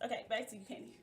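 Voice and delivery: mock news anchor handing over; playful anchor throw to Kenny; news anchor sign-off. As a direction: toss it back like a TV anchor. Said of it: "I felt like a news anchor".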